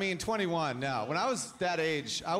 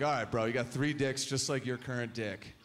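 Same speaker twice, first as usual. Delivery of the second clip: bro buddy; 5 semitones lower, 3 dB quieter than usual. Retold or imitated. Buddy spelling out the scenario in a low bro voice. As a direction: lower bro voice, dropping softer. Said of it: "My buddy's like".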